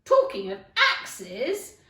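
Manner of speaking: high, loud, slow bellow; Duchess bellowing. Acted. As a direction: roar it out like a tyrant. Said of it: "said the Duchess".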